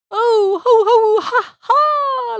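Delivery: loud, high storybook laughter; goat's laugh. A narrator's reading. Goat boy poked in the ribs, laughing loudly. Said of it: "laughed the goat".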